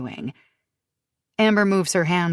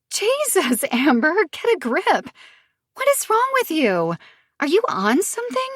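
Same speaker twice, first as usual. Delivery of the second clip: cackling; 12 semitones higher, 4 dB louder than usual. Acted. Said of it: "she cackles".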